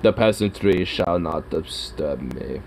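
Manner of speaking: lightly voiced elitist cat; a hint of a snooty lord; haughty cat. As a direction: speak as an aristocrat cat, mock-lofty. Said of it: "now he's all like".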